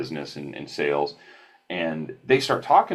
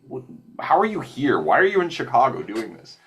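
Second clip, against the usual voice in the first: curious stranger; 7 semitones higher than usual. Retold or imitated. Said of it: "he goes".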